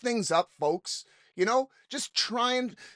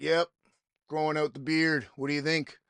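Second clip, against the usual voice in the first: lightly voiced low-key stranger; a hint of a laid-back bar regular; retold bar stranger; 4 semitones lower, 4 dB quieter than usual. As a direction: keep it low and soft as the beard guy. Retold bar stranger about his beard.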